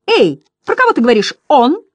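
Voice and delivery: high, loud clown question; shouting. A narrator's reading. First butterfly calls to Bastian, high shouted question. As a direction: call it out high, demanding an answer. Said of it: "крикнул первый".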